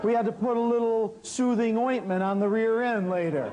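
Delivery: chuckling through the line; laughing. Real, not acted. Telling the audience about the horse's rear, laughing. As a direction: let the laugh spill into the words. Laughing at his own punchline.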